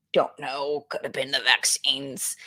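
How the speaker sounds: a private muttered guess; whispered aside. Real, not acted. Streamer whispering an aside to chat. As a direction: whisper it to yourself.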